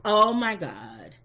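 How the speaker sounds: slow, mock-distressed caller; put-on dramatic reaction. Imitating a sister calling in, put-on dramatic dismay. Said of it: "did they really act like that?".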